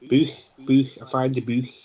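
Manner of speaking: German "Buch" with a throaty ch; mock German guttural "Buch"; German accent. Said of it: "pronounce the two K's at the end".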